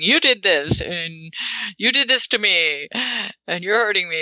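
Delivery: mildly acted accusation; accusing you-sentences. Jealous partner blaming in you sentences, mildly accusing. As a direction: point the blame, emphasis on YOU. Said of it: "Instead of saying".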